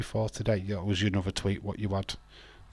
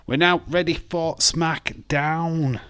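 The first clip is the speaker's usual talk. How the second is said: higher, slow, building hype; hyped announcement; 7 semitones higher, 4 dB louder, slower than usual. Real, not acted. Host hyping the SmackDown start to viewers, excited. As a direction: announce the show like a ring MC.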